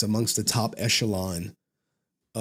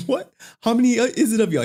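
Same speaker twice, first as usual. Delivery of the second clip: retold disbelief; 11 semitones higher, 5 dB louder, faster than usual. Pressing insider for numbers.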